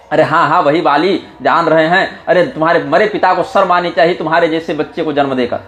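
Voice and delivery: ordinary talk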